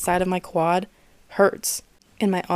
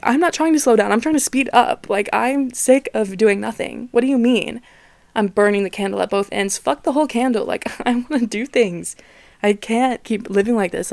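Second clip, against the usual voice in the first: frustrated inner rant; 2 semitones higher, 3 dB louder than usual. Retold or imitated. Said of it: "because I'm like".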